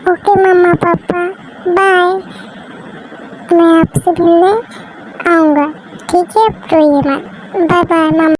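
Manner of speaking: put-on lightly childlike voice soothing papa; a little girl begging papa not to cry; childlike comforting. Child saying goodbye again. (हल्की बच्चों जैसी आवाज़ में पापा को दिलासा)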